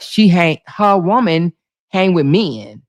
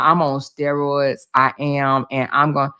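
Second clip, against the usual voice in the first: deliberately lower, easing the strained throat; 7 semitones lower than usual. Real, not acted. To chat, nursing laryngitis, speaking lower. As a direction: keep it low and gentle on the voice. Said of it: "I'm lowering my voice".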